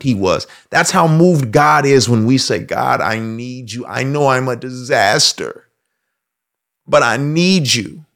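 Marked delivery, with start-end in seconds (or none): 2.6-8.0 soft, slow plea; humble prayer. Retold or imitated. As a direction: confess quietly, asking for help. Sinner prays to God.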